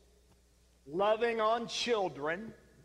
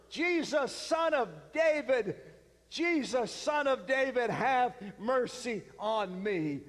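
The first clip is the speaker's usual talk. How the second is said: crying out louder. Retold or imitated. Blind beggar crying louder to Jesus, desperate loud plea. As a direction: call out over the crowd, slowing at the end. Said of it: "cries even louder".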